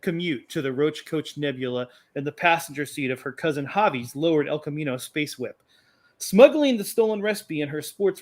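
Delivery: epic movie trailer narration; story narration. Acted. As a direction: read it like an opening crawl. Reads his space opera intro.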